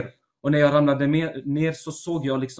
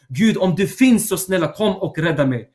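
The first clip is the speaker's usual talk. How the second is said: crying out to God; 3 semitones higher than usual. Retold or imitated. Begging God for rescue in hell, crying out. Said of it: "jag ropade i nöd, jag ropade i kraft och sa".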